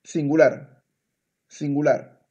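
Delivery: "singular" said the Spanish way, as a model; Spanish pronunciation. Shown as a demonstration. Teacher has the student repeat it, Spanish pronunciation. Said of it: "en español se dice singular".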